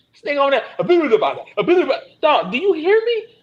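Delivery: high, loud, incredulous outrage; outraged rant. Real, not acted. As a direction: yell it at people who won't listen. Ranting at careless listeners.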